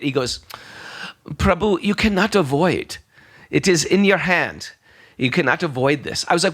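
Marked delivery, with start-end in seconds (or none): 1.3-6.2 lightly voiced fortune-teller, pitched up; palm reader's pronouncement. Palm reader telling a monk his fate, lightly imitated pronouncement. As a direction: deliver fate firmly, in measured phrases.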